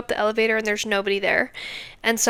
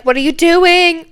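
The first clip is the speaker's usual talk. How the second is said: high, loud puppy voice asking; dog's bark as words; 7 semitones higher, 8 dB louder than usual. Retold or imitated. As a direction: bark it out as the curious dog. Voicing the barking dog.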